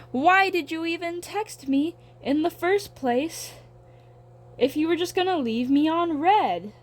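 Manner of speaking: dramatic rant. Real, not acted. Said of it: "I'm being a little more dramatic".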